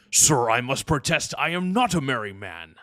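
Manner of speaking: indignant Klingon officer, punched opening; Worf. Acted. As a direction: protest formally like an affronted Klingon. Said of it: "rate my Worf, Worf impression".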